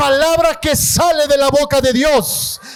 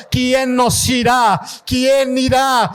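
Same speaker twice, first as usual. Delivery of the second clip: slow, shouted repeated call; shouted questions; slower than usual. Real, not acted. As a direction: call out to the congregation. Calling out. (preguntas gritadas con lentitud)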